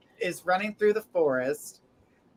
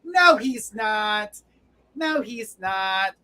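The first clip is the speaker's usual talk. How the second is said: dismissive; much slower than usual. Acted. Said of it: "She says".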